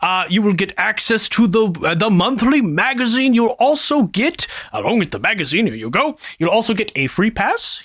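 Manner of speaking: breezy, lilting sales pitch; lightly voiced wizard salesman. Salesman explaining the pact to new recruit, breezy pitch. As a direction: reassure them as you sell the perks.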